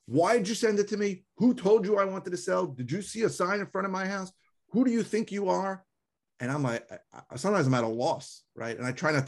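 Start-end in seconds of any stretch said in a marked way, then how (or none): 0.0-5.8 high, mock-furious yelling; imitating an irate caller; angry caller yelling. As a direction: play the outraged homeowner shouting. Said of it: "people who start screaming".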